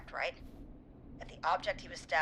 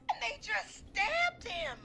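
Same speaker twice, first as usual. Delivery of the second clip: crying; much slower than usual. Acted. Caller sobbing over friend.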